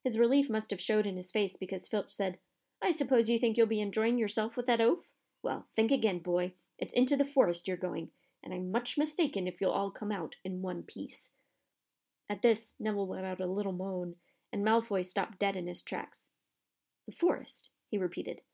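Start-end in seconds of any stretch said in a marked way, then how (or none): 2.8-11.3 a hint of a spiteful caretaker; gloating caretaker. Caretaker warns boy about the forest, gloating. 17.1-17.7 high, alarmed echo; losing his cool. Acted. Boy hears he must enter the forest, alarmed. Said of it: "didn't sound quite as cool as usual".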